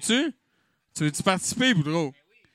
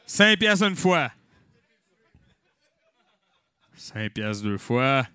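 encanteur; 3 semitones lower, slower than usual. Acted. Encanteur compte les enchères.

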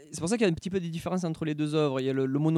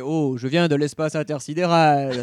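put-on alien old man voice; 8 dB louder, slower than usual. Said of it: "le vieux là qui fait".

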